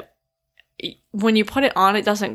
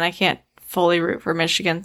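ordinary talk, nothing marked

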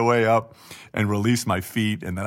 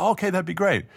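Connie's voice; 10 semitones higher than usual. Retold or imitated. Connie's reply voiced high.

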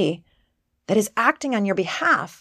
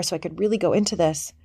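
ordinary talk

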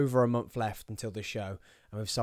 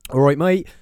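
loud, higher, badly faked Bristol accent; 4 semitones higher, 14 dB louder than usual. Host greets a mate, loud bad Bristol accent. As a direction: burst into a poor Bristol impersonation. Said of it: "that was a bad accent too".

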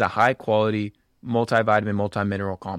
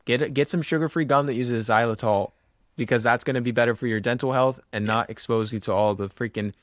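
chewing gum. Real, not acted. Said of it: "I'm chewing gum right now".

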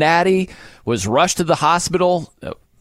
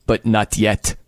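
Gladiator line; 6 semitones lower, slower than usual. Retold or imitated. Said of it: "This is the Gladiator gif".

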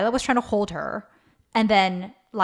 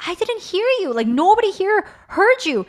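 defensive retort; 10 semitones higher than usual. Retold or imitated. Mom defends herself to child.

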